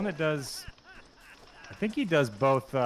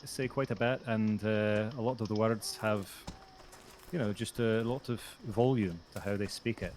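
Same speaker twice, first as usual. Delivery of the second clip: Scottish accent. Shown as a demonstration. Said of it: "that's how I do a Scottish accent".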